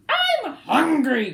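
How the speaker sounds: slow, loud, high cry; cried out. Acted. Cyril crying out to Bruce in hunger. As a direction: wail it out from hunger. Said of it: "cried Cyril".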